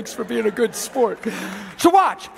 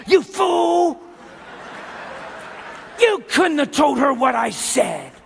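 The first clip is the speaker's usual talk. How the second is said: a touch of a scolding demon boss; mild angry boss. Acted. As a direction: snap at the imp, mildly. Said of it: "He says".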